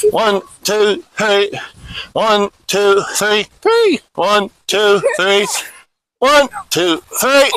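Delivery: brisk push-up count, numbers close together; snappy drill count; quick cadence. Shown as a demonstration. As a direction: count the reps off quickly and evenly. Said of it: "pretty quick cadence on the push-ups".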